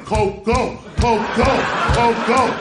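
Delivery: mock schoolkids' yell, growing with each round; kids yelling. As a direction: chant it like cheering kids, punchy and rhythmic. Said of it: "they're yelling".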